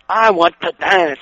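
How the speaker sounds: slow, flat wrestler reply; slow giant voice. Retold or imitated. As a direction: drag each word out dimly. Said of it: "he goes".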